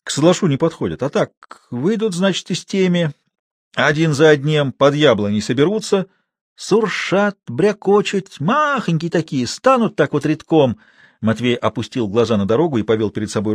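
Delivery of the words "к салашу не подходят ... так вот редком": higher-pitched rustic storyteller, in earnest; old watchman spinning yarn. A narrator's reading. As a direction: describe the goblins with drawn-out, eerie words. Матвей рассказывает о кобиасах.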